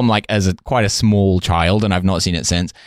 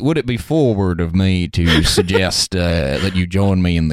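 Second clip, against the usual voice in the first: mock bashful suitor; 3 semitones lower than usual. Suitor continues the skit.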